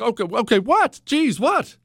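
high-pitched, rising baffled questions; exasperated what's-going-on reaction, retold; alarmed questioning. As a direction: replay your puzzled alarm at her fuss. Husband reacts to wife's fuss.

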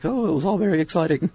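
put-on high, quick older British lady; posh old English lady voice; British lady accent. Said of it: "That's a great British lady accent".

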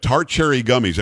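"Tart Cherry Gummies" with each word carefully separated; careful pronunciation. Shown as a demonstration. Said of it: "you hear how I pronounce that sucker".

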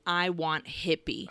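soft, low-key deadpan demand. Retold or imitated. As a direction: state it quietly with no feeling.

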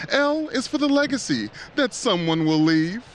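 rising dramatic poem reading; Edgar Allan Poe voice. Acted. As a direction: recite like a gothic poet. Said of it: "get my Edgar Allan Poe voice on".

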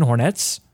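"Hornets" with the pitch rising on the N of the last syllable; up inflection. Shown as a demonstration. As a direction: lift the tune upward at the N in "Hornets", like uptalk. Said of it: "you have to do the up inflection on the N".

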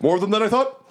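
high, strained quip from a wounded fighter; NPC quip. Acted. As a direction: toss it off high and tense. GM voices NPC mid-fight.

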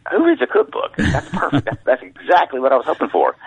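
high, laughing quoted thought; amused disbelief. Retold or imitated. Author recalling his reaction to cookbook readers, amused disbelief. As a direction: laugh through the incredulous reaction.

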